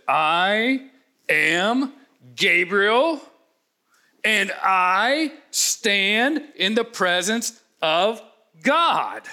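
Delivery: a mildly booming, very slow proclamation; a hint of thundering angel. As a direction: announce it with drawn-out weight. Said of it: "with a voice like thunder".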